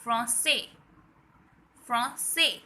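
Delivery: "Français" said in French as fron-say; teacher models "Français"; French drill. Shown as a demonstration. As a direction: have the class repeat "Français". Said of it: "So what we say?".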